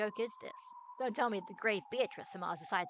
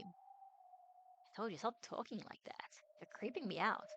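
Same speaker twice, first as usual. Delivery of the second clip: quiet uneasy protest; 6 dB quieter, slower than usual. Acted. Battler uneasy with Beatrice.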